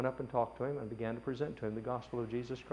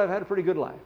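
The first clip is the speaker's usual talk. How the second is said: put-on old man voice; 6 semitones higher, 9 dB louder, faster than usual. Dying rich man voiced in story.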